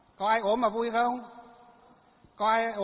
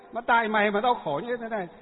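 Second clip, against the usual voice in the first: louder, raised retelling of the wife's cursing; mock angry yell; 3 semitones higher, 5 dB louder than usual. Monk retelling the wife cursing her husband in labour, mock angry yell. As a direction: throw the blame like a woman in labour. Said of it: "Lúc đó không anh, không em gì nữa".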